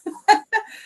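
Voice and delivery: short, high laugh. Real, not acted. Speaker amused before telling the surgery story, high loud laugh.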